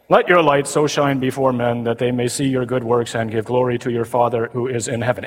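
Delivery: flat, dull, lifeless reading of scripture; monotone gospel reading. Retold or imitated. Priest droning the gospel at Mass, flat monotone. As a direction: drone it like a bored lector. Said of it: "Ever heard it read like that?".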